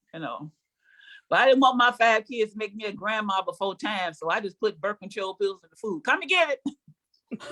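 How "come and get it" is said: slow, higher dinner call; mock sweet dinner call; singsong dinner call. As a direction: call the kids to eat slowly. Calling kids to dinner.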